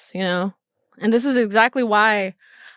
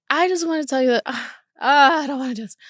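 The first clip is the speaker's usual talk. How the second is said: choked up, pitched higher; on the verge of crying; 5 semitones higher, faster than usual. Real, not acted. Daughter repeating her mom's words, close to tears. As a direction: struggle to get the words out through tears. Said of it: "Fucking crying".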